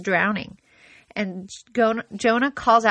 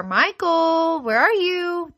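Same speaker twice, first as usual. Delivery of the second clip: high, carrying call across the house; calling out a kid's name; 8 semitones higher, slower than usual. Shown as a demonstration. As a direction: call out to find your child. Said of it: "when I call out my kids' names".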